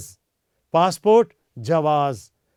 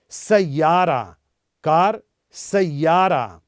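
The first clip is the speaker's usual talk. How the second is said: सैयारा drawn out slowly, clear long आ; slow model pronunciation; much slower than usual. Shown as a demonstration. Teacher slowly modelling सैयारा for students. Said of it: "हमारी तरह pronounce करें".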